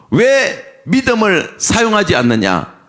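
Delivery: mild acted scolding, pitched a touch up; understated stern reproach; rebuking. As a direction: reprove a follower for lacking faith. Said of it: "하면서 오히려 꾸짖으셨어요".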